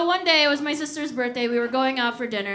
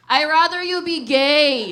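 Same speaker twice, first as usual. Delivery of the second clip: dad shouting; 4 dB louder than usual. Retold or imitated. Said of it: "my dad in the background go".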